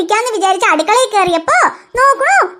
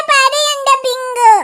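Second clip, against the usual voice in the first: whiny crying; much slower than usual. Acted. Teased boy whining.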